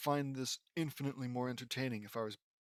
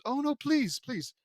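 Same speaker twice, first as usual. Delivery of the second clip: high, loud fake begging that drops away; mock pleading; 11 semitones higher, 5 dB louder, slower than usual. Reader fed up with endless introductions, high sarcastic plea. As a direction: plead with exaggerated dread.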